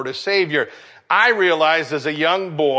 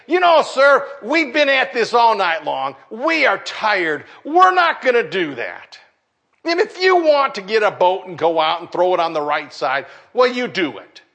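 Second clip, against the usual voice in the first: exasperated fishermen; 4 semitones higher, 3 dB louder than usual. Pretend. Tired disciples pushing back.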